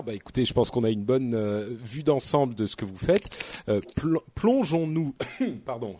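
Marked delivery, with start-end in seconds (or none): 4.0-6.0 choking on a drink, coughing through. Real, not acted. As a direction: talk while choking and coughing. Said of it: "je m'étouffe". (en s'étouffant, avec une toux)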